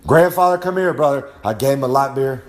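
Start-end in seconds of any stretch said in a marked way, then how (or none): 0.1-1.3 hearty greeting. Retold or imitated. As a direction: call him over like a buddy. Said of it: "I said".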